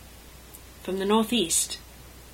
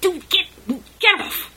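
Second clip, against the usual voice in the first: very high, loud shriek to let go; panicked shout; 11 semitones higher, 8 dB louder than usual. A narrator's reading. Sebastian shoving Caspian off at the cliff, high panicked shout. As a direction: squeal to break free.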